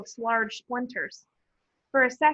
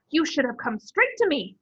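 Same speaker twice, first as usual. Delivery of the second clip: raging; 5 semitones higher, 3 dB louder than usual. Acted. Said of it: "she raged".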